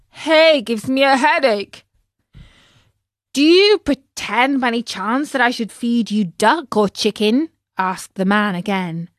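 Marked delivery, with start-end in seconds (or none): 0.1-1.8 pained cry. Acted. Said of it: "Pinocchio screamed with pain". 3.3-7.5 angry. Acted. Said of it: "angrier than ever".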